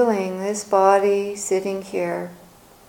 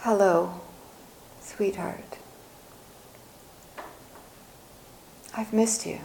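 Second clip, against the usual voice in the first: soft, hushed greeting to oneself; tender self-greeting; 9 dB quieter than usual. Acted. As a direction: greet yourself gently and softly, with pauses. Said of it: "we're greeting ourselves".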